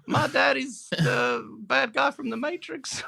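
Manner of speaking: high, slow mock Southern voice; Southern American accent. Podcaster riffing on the film, mock Southern American accent. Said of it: "It's Southern American".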